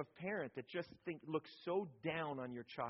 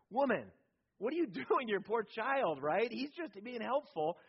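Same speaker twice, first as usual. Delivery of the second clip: exasperated plea; 5 semitones higher, 5 dB louder than usual. Retold or imitated. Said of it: "and I thought".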